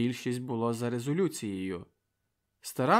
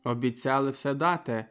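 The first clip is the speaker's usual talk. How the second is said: impassioned public address; rousing speech; 4 dB louder than usual. A narrator's reading. Volodko addressing the meeting, stirring. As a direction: speak to the crowd with fire.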